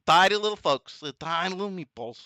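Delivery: shaky attempt at a politician impression; lightly mock a president's speech; Trump. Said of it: "I know I can do that voice".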